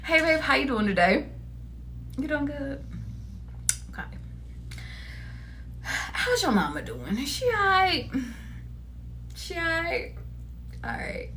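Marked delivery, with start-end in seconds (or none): 0.0-1.3 gentle easy greeting, straight-faced this time; sweet casual opener, composed. Shown as a demonstration. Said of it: "I'm sorry". 2.2-10.1 soft caring check-in. Shown as a demonstration. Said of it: "I need y'all to just be like".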